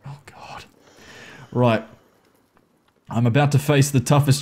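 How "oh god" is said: whispered oh god, barely voiced; scared whisper. Real, not acted. Player hiding in the dark, frightened whisper. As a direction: breathe it out in fear.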